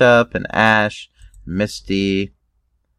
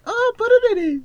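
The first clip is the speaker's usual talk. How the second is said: mock yelling. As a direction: cry out the name like a cartoon character. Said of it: "like, yelling about".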